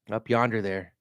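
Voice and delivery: light Southern drawl on up yonder there; a hint of a Southern drawl, drawn out. Shown as a demonstration. Vlogger heading to Albert Lea tries a light Southern drawl. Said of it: "I'm using a lot of Southern drawl".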